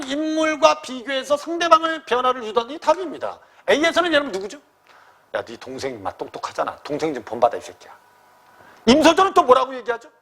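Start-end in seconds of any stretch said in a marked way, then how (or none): 5.3-8.0 mock scolding mother. Mother scolding son, voiced.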